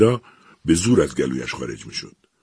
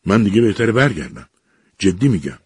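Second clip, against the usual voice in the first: higher, louder frightened plea; 5 semitones higher, 6 dB louder than usual. Acted. Eliza begs the machine in a sudden fright, higher and louder. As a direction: say it in a sudden panic to get out. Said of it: "یک مرتبه سخت وحشت زده شد".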